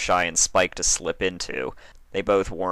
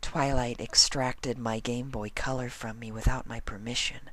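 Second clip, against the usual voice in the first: higher, softer and simple; soft answer; 6 semitones higher, 6 dB quieter than usual. A narrator's reading. Fluttershy explains her missing Game Boy to Spike, softly. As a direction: answer plainly and gently. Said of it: "Fluttershy answered simply and softly".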